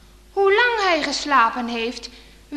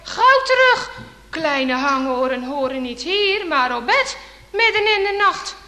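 lightly voiced father sending the boy back to bed; father scolding his curious son, mock stern and raised. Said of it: "Hij zou zeggen".

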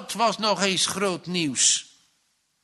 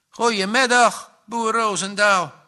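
louder, higher, friendly hail; friendly greeting; 5 semitones higher, 4 dB louder than usual. A narrator's reading. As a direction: greet the farmer cheerfully. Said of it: "groette Ai vriendelijk". (vriendelijk groetend)

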